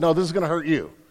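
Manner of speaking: mock laughing while speaking. Retelling what his dad said to him, retelling dad laughing while speaking. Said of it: "As he laughed".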